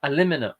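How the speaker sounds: "Aluminum" stumbled as uh-LIM-in-uh; failed American pronunciation. Real, not acted. Streamer struggling with the American word, fumbled "Aluminum". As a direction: fumble "Aluminum", losing the oo and the last m. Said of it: "I can't say it".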